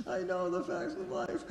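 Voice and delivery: high laugh then a laughing quote. Real, not acted. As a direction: laugh through the line. Kid crying confession, laughing.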